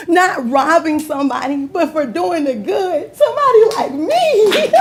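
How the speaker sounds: tearful pride at being honored; holding back tears. Real, not acted. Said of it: "I'm gonna try not to call, cry".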